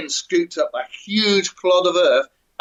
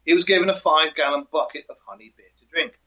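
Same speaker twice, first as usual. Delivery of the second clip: ordinary talk, nothing marked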